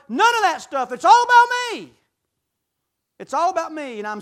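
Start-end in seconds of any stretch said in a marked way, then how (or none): 0.9-1.9 mocking selfish whine. Mocking the self-centred believer.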